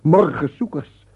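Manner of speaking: loud, slow summoning call. Acted. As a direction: call them in from the woods. Calling to the forest creatures.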